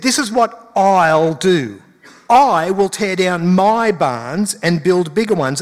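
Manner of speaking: a preacher reading scripture with marked emphasis; emphatic reading. Shown as a demonstration. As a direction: lean hard into the rich man's boasting words, then let it drop. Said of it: "I've put the emphasis in and I'll read it for you".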